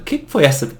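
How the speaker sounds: imitating a fed-up viewer; mock annoyed viewer. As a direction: rant at a wasted twenty minutes.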